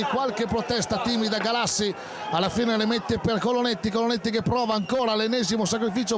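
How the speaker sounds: fast rising football call; excited live match commentary; play-by-play commentary. Acted.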